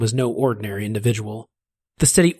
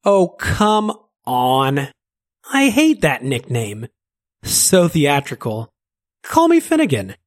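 theatrical Finnegan; 3 semitones higher, 3 dB louder, slower than usual. Acted. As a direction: roll your eyes at the nickname, slowly. Finnegan voice in story.

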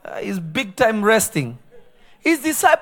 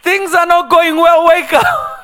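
mock calm plea; 9 semitones higher, 7 dB louder than usual. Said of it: "They didn't say".

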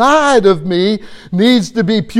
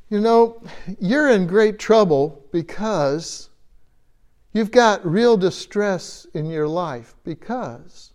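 gentle warning. Retold or imitated. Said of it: "he's warning them to say".

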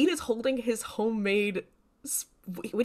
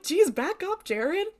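mock protest; 9 semitones higher than usual. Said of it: "And I'm like".

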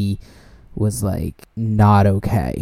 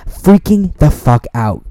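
excited; 6 semitones higher, 6 dB louder than usual. Real, not acted. Describing his panic.

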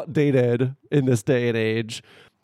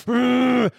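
mock-furious growly "ugh", pitched up; furious grunt; 10 semitones higher than usual. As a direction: grunt in hammed-up fury. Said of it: "like, furious, just like".

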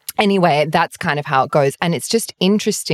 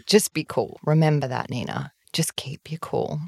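hushed self-pep talk; 6 dB quieter than usual. Retold or imitated. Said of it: "was sort of like".

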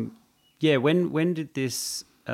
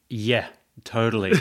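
breezy mock agreement, slightly higher; fake agreement; 3 semitones higher, 6 dB louder than usual. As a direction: toss off a hollow yes. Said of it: "everyone's just like".

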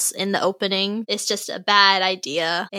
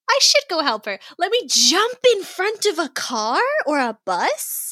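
higher singsong do-gooder; mock heroic resolve; 7 semitones higher than usual. Mocking the hero halfway through the crosswalk, mock-earnest. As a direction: send up the hero's bright idea. Mocking the hero's foolish decision.

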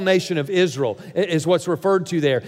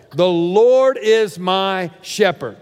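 slow, deliberate reading of the verse; slow scripture reading; much slower than usual. Shown as a demonstration. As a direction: read the verse slowly, word by word. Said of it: "circle the word "my".

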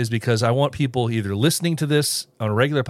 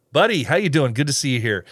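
put-on a clumsy, half-hearted try at an Australian accent; bad Australian accent; 3 semitones higher than usual. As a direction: playfully fake an Australian greeting, not quite landing it. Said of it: "Tried to speak in a weird tongue".

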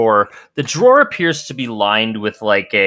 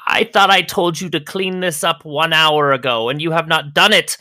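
higher, scolding lady of the house; scolding Agnes; 5 semitones higher than usual. Acted. Agnes scolds her butler for not cleaning up, indignant. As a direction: scold the servant, rising at the end. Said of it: "she says".

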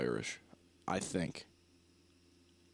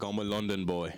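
put-on London accent. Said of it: "they just have a simple accent".

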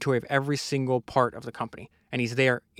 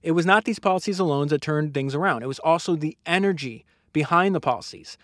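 projected, building reading aloud; book narration; 5 semitones higher, 4 dB louder than usual. Acted. Host reads what turned the company around, book narration. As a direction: read it out with mounting emphasis.

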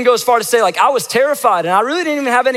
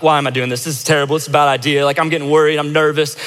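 inner worry; 4 semitones lower, faster than usual. Retold or imitated. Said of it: "each time I'm like".

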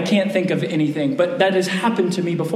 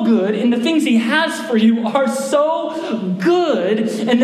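urgent apostle plea; 6 semitones higher than usual. Acted. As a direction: plead with them to see how good God is. James voiced urging the readers.

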